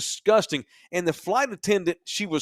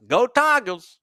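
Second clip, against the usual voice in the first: mock fan cheer; 7 semitones higher, 4 dB louder, slower than usual.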